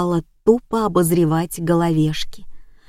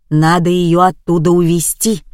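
exclaiming; 4 dB louder than usual. Acted. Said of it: "воскликнула Клавдия Степановна".

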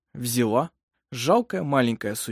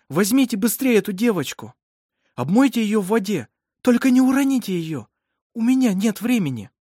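raised, insistent commanding voice; urgent orders; 9 semitones higher, 5 dB louder than usual. A narrator's reading. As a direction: order a helper about under pressure. Midwife giving urgent orders during birth.

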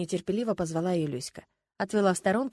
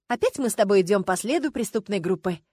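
с воодушевлением; 5 dB louder than usual. Acted. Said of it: "с воодушевлением сказала".

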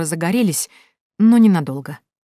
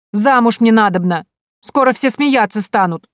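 tearful lament; 5 semitones higher, 6 dB louder than usual. A narrator's reading. Crying girl laments.

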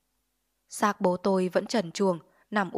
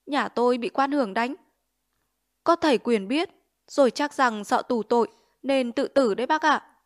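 frightened reply; 4 semitones higher, 5 dB louder than usual. Acted. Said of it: "Mẹ tôi sợ quá đáp".

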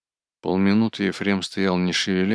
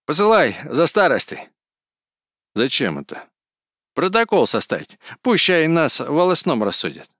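higher, louder bluster; angry ranting; 8 semitones higher, 6 dB louder than usual. A narrator's reading. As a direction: bluster and threaten the old man. Кузьма still raging.

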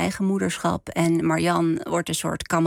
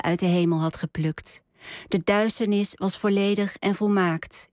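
measured story narration with deliberate pauses; literary reading. A narrator's reading. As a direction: read it out as an author at a book reading, phrase by phrase. Author reads own novel. (bedachtzaam voorgelezen verhaal)

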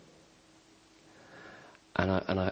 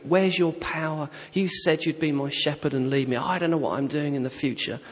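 a hushed shout, higher, holding the anger down; shouted quietly; 6 semitones higher than usual. Retold or imitated. At night on the sofa, raging at God in pain: hushed, higher furious shout. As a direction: rail at God without waking the house. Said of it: "but I shouted quietly".

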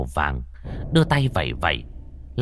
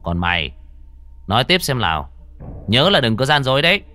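stern; 3 semitones higher than usual. Acted. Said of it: "quay sang con Vong nghiêm mặt".

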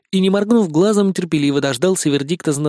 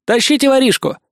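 put-on boy's command; 9 semitones higher than usual. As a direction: call the helpers to drag him. Никитка командует. (громкий звонкий приказ)

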